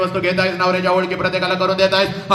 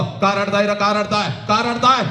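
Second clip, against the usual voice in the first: scolding call; 2 semitones higher than usual. Acted. Father to weeping wedding guests, mild acted yell. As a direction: call out in rising, insistent repeats. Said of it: "सगळ्यांना ओरडतो".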